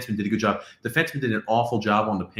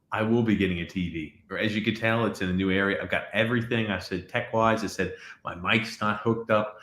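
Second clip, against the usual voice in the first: echoey. Real, not acted. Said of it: "That's maybe why I sound echoey".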